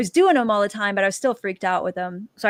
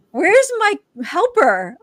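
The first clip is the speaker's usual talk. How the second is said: high, loud, drawn-out complaint; mock indignant demand; 7 semitones higher, 5 dB louder, slower than usual. Calling for the missing friend on the trip, mock indignant. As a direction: wail it slowly, high and put-out.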